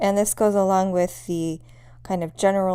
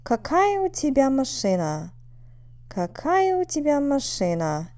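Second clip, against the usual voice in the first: "Какая" raised high, the rest going down; question intonation; 4 semitones higher than usual. Shown as a demonstration. Teacher showing students how to ask about a car, question intonation. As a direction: voice up on the stressed syllable of "Какая", then falling. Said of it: "Listen to the intonation".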